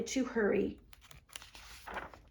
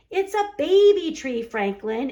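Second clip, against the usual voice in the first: Beaver explaining; 4 semitones higher, 6 dB louder than usual. A narrator's reading. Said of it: "explained Beaver".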